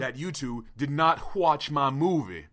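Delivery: slow, measured mock oratory; hammed-up statesman making an accusation; Martin Luther King. Guest confronting hosts about his movie, slow orator impression. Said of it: "Martin Luther King".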